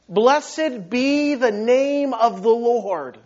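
slow, drawn-out declaration of worship; heartfelt conviction. Retold or imitated. Job worshipping after losing everything, slow and heartfelt. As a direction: stretch each word, fully meaning it. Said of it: "Job meant it. Job believed it".

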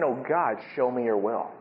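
low, hushed plea; submissive prayer. Acted. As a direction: pray softly, yielding to God. Models submissive prayer, not demanding.

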